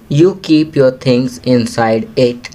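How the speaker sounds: very slow, deliberate classroom reading; teacher's slow read-aloud; slow instruction reading. Shown as a demonstration. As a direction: read each English word slowly for young learners. Teacher reads hint.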